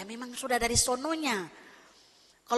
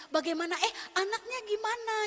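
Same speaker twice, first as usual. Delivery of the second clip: caring question; 5 semitones higher than usual. Shown as a demonstration. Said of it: "Paling enak tuh kalau misalnya gini".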